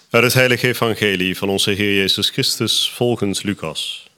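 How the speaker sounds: measured, formal reading aloud of scripture; gospel reading. Acted. Reader proclaims Luke's gospel to the congregation, formal liturgical reading. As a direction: proclaim it in evenly paced phrases with clear pauses.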